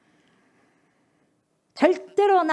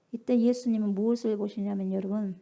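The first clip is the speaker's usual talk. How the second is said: usual speaking voice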